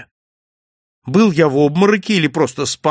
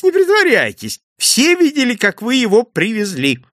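much higher, louder repeat of the plea; excited teasing; 10 semitones higher, 4 dB louder than usual. Acted. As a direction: push the repeat up into bright disbelief. Innkeeper teasing the guest. (хозяин повторяет с жаром, гораздо выше и громче)

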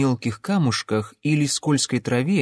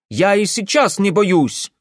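put-on defiant young man; 9 semitones higher, 5 dB louder than usual. Ingvar defiant.

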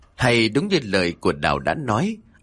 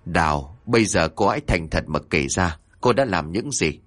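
stern demand; 5 semitones lower than usual. Acted. Exorcist coldly demands confession.

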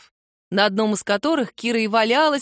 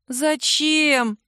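groaned; 6 semitones higher than usual. A narrator's reading. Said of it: "простонала Кира".

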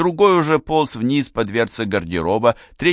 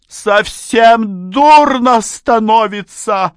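much higher and louder, slowing to the end; rising outrage, stress карманные; indignant mother; 11 semitones higher, 7 dB louder, slower than usual. A narrator's reading. Mother scolding father over pocket money, high loud outrage.

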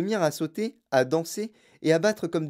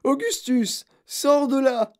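high loud shout to her son; howling; 12 semitones higher, 5 dB louder, slower than usual. A narrator's reading. Mother calls her son out of the pipe, howling. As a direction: yell it in panic. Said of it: "hurla Madame Gloop".

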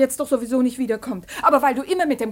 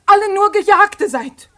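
tearful plea; 4 semitones higher, 6 dB louder than usual. Acted. Daughter's plea breaking.

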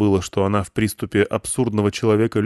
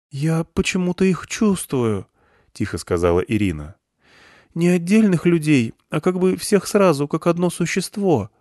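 put-on a frightened girl sensing the crowd; young girl Irina, hushed; 8 semitones higher than usual. Irina voiced throughout.

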